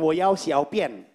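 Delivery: "Wo yao xiao pian" said slowly, each syllable apart; slow Mandarin phrase. Shown as a demonstration. Comic showing his second Mandarin sentence.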